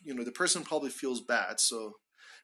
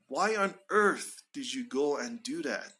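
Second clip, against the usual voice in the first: "earth" lifted, then dropped, in reproach; rise-fall on earth. Shown as a demonstration. Questioning someone's actions afterwards, rise-fall on "earth". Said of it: "fall intonation for earth".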